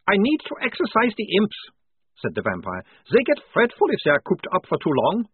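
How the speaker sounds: high, loud, cheery vampire; vampire reassuring the soldier, high and cheerful. A narrator's reading. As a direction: chirp it up high like a friendly vampire. Vampire Otto voice.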